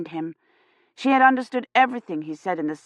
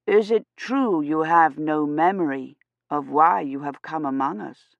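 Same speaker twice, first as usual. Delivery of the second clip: lightly voiced priest; 2 semitones lower than usual.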